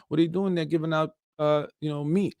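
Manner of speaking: hint of a scolding insurance company; mock insurer. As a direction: imitate a nosy insurer, quick and incredulous. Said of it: "That's what your insurance company is gonna say".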